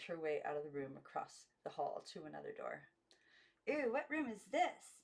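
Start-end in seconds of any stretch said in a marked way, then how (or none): 3.7-5.0 put-on much higher girlish question; wide-eyed wonder; high childlike curiosity; curious girls. A narrator's reading. Girls enter bathroom.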